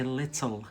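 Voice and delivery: "little" with the t sounded; "little" as said in England, t pronounced; English "little". Shown as a demonstration. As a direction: say "little" with a clear t in the middle. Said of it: "in England, they say".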